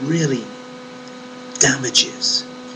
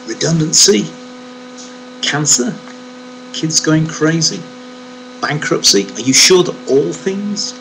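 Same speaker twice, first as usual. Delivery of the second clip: incredulous questions; 5 semitones higher than usual. Pretend. Listing hardships incredulously.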